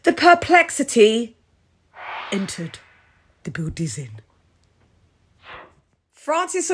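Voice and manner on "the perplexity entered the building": fading to a whisper. Acted.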